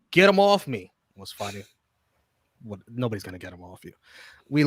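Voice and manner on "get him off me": high, loud mock cry for help; mock yell; retold yell. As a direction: plead to be rescued. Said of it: "Rey yelling".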